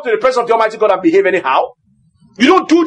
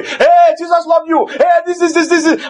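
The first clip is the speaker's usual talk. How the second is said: higher, louder preacher shouting; loud preaching; 4 semitones higher than usual. Retold or imitated. Pastor hammering the congregation with loud preaching. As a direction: mimic the pastor making noise at the pulpit. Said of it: "making noise like I'm doing".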